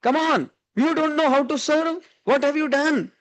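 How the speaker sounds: a hint of a fussy mother-in-law telling off her daughter; scolding mother-in-law. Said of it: "She calls out the name of her daughter and says".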